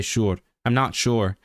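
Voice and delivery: "sure" ending in a clear American R. Shown as a demonstration. Showing chat how Americans talk, "sure" with a pronounced R. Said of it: "Americans say".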